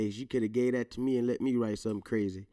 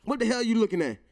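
loud, high What the hell; dad catching kid by surprise, loud; startled shout; 9 semitones higher, 6 dB louder, faster than usual. Retold or imitated. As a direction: jump out and bark it at her. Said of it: "I might pop up on her".

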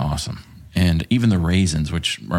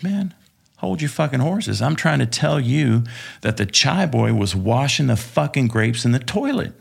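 higher, exasperated pushback; exasperated protest; 5 semitones higher than usual. Retold or imitated. Telling off the colonel after the meeting, exasperated. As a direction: finally get to explain, fed up.

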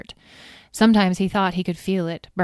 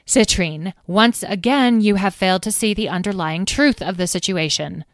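a sharp, louder rebuke; snapped; 2 semitones higher, 4 dB louder than usual. Acted. Carnelian rebuking Citrine for missing the truth, a sharp snap. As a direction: snap at her, lofty and cutting. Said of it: "snapped Carnelian".

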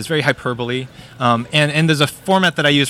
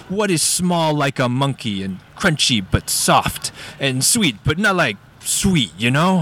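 slow, hammed-up riddle from a sphinx; baby sphinx; slower than usual. Baby sphinx quizzes dad, mock-mysterious. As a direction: pose the riddle like a childish mythical beast. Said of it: "cuts back to the baby sphinx".

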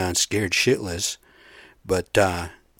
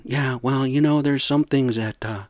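stammering mock retreat; Ted Cruz backpedaling. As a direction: imitate a politician squirming out of it, trailing into hesitant denials. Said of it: "Now he's all backpedaling".

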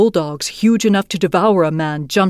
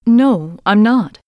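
Gerda; 3 semitones higher, 4 dB louder, slower than usual. Acted. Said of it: "said little Gerda".

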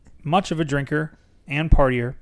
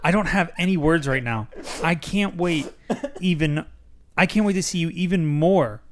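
laughing; 4 semitones higher than usual. Acted. Excited husband on phone.

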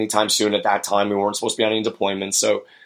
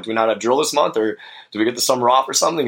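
lightly joking question, quicker and rising at the end; 3 semitones higher, faster than usual. Retold or imitated. Soldier joking with his squad leader on the phone, lightly joking. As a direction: retell a casual joke to the caller. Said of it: "I joked, and as I usually do".

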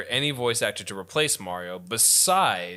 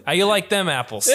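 put-on Boston accent; 4 semitones higher, 4 dB louder than usual. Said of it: "He's just like".

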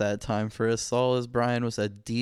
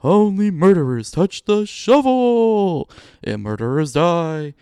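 ghostly whisper; 5 semitones higher, 9 dB louder than usual. A narrator's reading. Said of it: "A ghostly whisper surrounded me".

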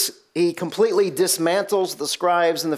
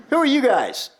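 sneering demon; 6 semitones higher than usual. Acted. Demon mocking the exorcists.

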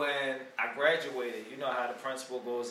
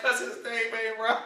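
laughing; 8 semitones higher, slower than usual. Retold or imitated. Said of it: "She was like".

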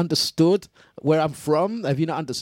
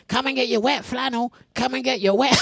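street hawker call; 9 semitones higher than usual. Pretend. Ice cream van seller calling out.

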